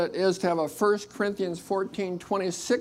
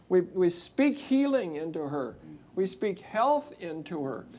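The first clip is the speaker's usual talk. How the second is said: prayer. Acted. Prays over Kaylee.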